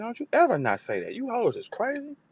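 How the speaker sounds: high, cocky boast in Jazz's voice; high-pitched mocking Jazz impression; imitating Jazz. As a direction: brag like the queen of battle rap, pitched high. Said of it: "she said".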